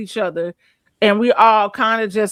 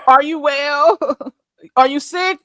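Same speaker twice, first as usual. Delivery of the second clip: higher, rising questions broken by laughs; laughing disbelief; 4 semitones higher than usual. Real, not acted. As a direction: ask it incredulously through laughter. Laughing mock concern at remark.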